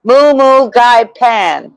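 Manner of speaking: patient teacher slowly repeating the dish name; slow correcting pronunciation. Shown as a demonstration. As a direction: moo moo gai pan drawn out slowly, stress on moo. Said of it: "Like Chopin, but dry pan".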